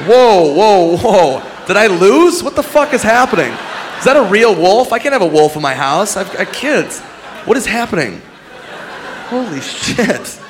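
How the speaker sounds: high, alarmed contestant; hammed-up panicked winner; mock panic. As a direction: freak out at the prize. Panicked contestant wins wolf.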